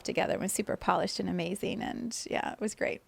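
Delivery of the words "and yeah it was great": whispered aside. Real, not acted. Aside after story.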